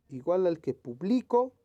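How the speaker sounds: publico with BLI punched; stress on middle syllable. Shown as a demonstration. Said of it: "Vamos a leer".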